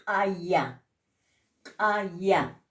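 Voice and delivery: "kaya" with a hard glottal k, falling. Shown as a demonstration. Teacher modelling glottalized k for students, crisp. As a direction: pop the k at the back of the throat in "kaya". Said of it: "que se pronuncia con K".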